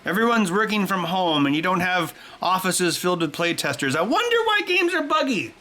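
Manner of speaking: high mock-innocent sarcasm; sarcastic jab at whiny game reviewers. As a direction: play dumb, dripping sarcasm. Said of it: "It's like".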